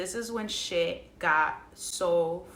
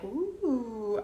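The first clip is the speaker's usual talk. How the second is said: long, drawn-out imitation of being high; woozy "ooh"; 2 semitones higher, 3 dB quieter than usual. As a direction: let out a floaty, drugged "ooh". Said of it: "literally was so high".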